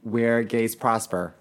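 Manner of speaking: slow storybook narration; continue slowly like a fairy tale; fairy tale style. Shown as a demonstration. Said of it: "Add some fucking fairy tale style".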